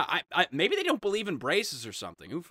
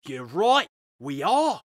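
mock Australian rallying speech; half-British attempt sliding into Australian; Australian accent; 3 semitones higher than usual. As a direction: put on a broad, swooping Australian accent. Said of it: "it's Australian".

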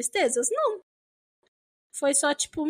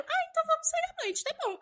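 imitating husband; 12 semitones higher, 4 dB quieter, faster than usual. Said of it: "husband's reply in retold argument".

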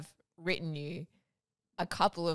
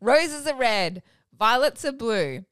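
slower, louder romantic reading; mock-romantic recital; 3 semitones higher, 5 dB louder, slower than usual. Reading a mock love poem to Sean with put-on romance. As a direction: lay the romance on thick. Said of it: "put a nice voice on it".

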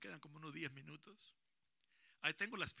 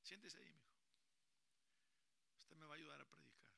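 whisper; 17 dB quieter than usual. Real, not acted. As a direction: whisper him to his seat. Susurra al niño. (susurro suave al niño)

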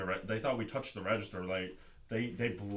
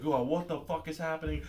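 higher-pitched imitation of an upset woman; hammed-up outraged question; mock outraged employee; 7 semitones higher than usual. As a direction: put on her indignant voice.

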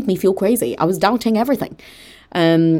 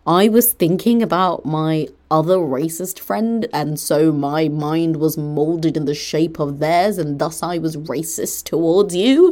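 slow, over-deliberate mock reasoning; mock explanation; slower than usual. Parodying the friend's excuse to show it's absurd, mockingly. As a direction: spell out the absurd excuse slowly and pompously.

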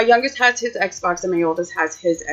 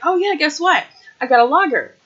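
put-on excited kid; 6 semitones higher than usual. Nephew brags about toy.

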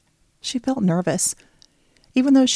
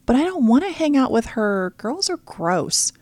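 put-on whining boy; 6 semitones higher than usual. Little brother whining about hanging out with girls. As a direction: stretch out the whine like a sulking kid. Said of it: "Brian whined".

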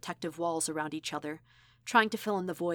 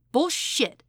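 much higher, louder angry shout; fired-back shout; 9 semitones higher, 8 dB louder than usual. Acted. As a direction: spit the word back at him. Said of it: "she fired back".

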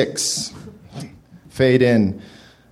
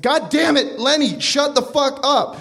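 mock angry snap; 9 semitones higher than usual. Johnny snaps at Leonard.

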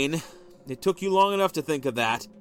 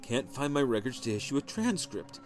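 dejected; 6 dB quieter than usual. A narrator's reading. Husband reading quietly, low.

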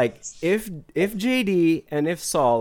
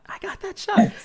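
"I got that shot" jumps way higher on the repeat; hyped-up boast. Retold or imitated. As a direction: pump yourself up on the second take. Confident quote repeated twice.

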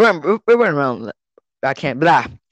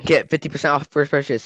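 cheesy ad read. Pretend. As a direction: hype it like a late-night commercial. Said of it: "another ad".

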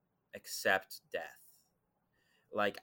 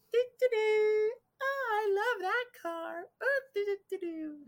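loopy sing-song. Retold or imitated. The possessed woman strolls past him, humming in a very high loopy voice. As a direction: float it up high like someone gone loopy. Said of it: "and now she's loopy".

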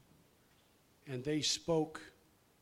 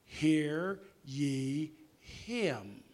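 voice from heaven; 4 dB louder, much slower than usual. Retold or imitated. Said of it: "And that voice said".

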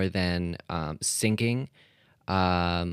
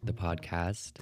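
morning news show intro. Acted. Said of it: "why am I starting this like it's, like, a morning news show?".

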